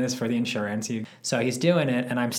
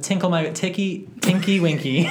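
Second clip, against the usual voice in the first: laughing; 7 semitones higher, 6 dB louder than usual. Real, not acted. Laughing over the name.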